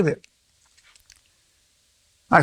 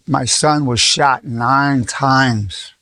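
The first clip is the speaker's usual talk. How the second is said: weeping mother; much slower than usual. Retold or imitated. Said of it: "came to see me weeping".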